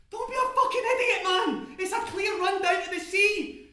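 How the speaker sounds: high, loud, urgent argument; exasperated yelling. Acted. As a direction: shout sense into a stubborn friend. Charlie argues at full pitch.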